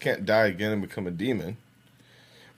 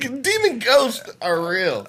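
demon voice; 11 semitones higher, much slower than usual. Acted. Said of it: "I could do a demon voice really easy".

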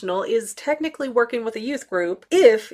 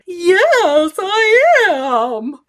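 high, louder thrilled answer; excited yes; 9 semitones higher, 7 dB louder, much slower than usual. Retold or imitated. Vlogger answering the fan who recognized her, thrilled. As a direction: burst with delight at being recognized.

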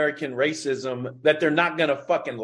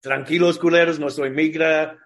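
put-on Chicano Mexican accent. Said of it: "you're able to do this Chicano, like, Mexican accent".

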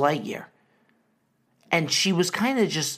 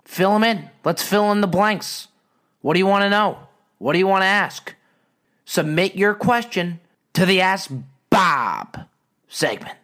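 hype host; 3 semitones higher than usual. Pretend.

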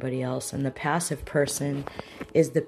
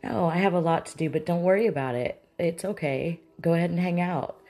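slightly raised, quick, put-upon reassurance; lightly acted martyr host; passive-aggressive; 3 semitones higher than usual. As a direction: act okay while making them feel guilty. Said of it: "turn into a passive-aggressive person".

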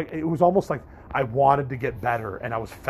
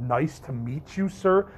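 polite greeting; 2 semitones higher, slower than usual. Retold or imitated. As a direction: greet the staff member politely. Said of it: "I was very polite at first".

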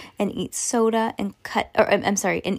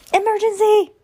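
high, loud urgent cry of emergency; dramatic exclamation; 8 dB louder than usual. Acted. Reading the book's chapter title aloud, dramatic urgent shout. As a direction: announce it like a siren going off.

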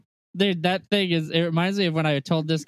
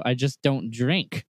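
slow flat reply; slower than usual. Retold or imitated. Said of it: "I go".

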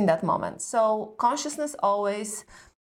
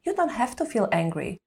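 dismissive fixing; 3 semitones higher than usual. Shown as a demonstration. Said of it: "All what we want to do is solve for it".

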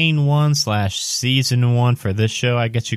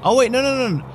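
surprised; 13 semitones higher, much faster than usual. Real, not acted. GM catches his own mistake.

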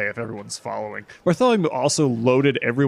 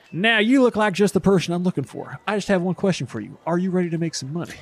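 smooth salesman pitch; 6 semitones higher than usual. Acted. Bartholomew pitching to vendor.

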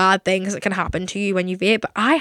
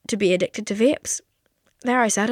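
half-whispered, like a guilty secret; hushed confession. Real, not acted. Host confessing a vape habit to listeners, hushed. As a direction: let it slip out in a near whisper.

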